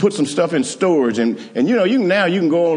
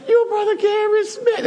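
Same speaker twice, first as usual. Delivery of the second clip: surprised. Retold or imitated. Young lady recognizes him.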